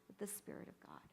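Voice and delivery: hushed whisper; whispered reverence. Real, not acted. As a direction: breathe it out softly. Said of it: "sermon hush".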